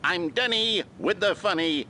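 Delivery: half-hearted mock scream; practice screaming. Shown as a demonstration. Instructor leads screaming practice, half-hearted mock yell. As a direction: raise the pitch, barely raise the volume. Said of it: "Let's practice screaming".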